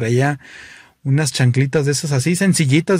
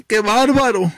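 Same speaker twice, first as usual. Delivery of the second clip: much higher, dramatic camp wail; flamboyant guy exhausted; 9 semitones higher than usual. Acted. Sweaty flamboyant guy arriving at the finish, high dramatic wail. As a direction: moan it theatrically.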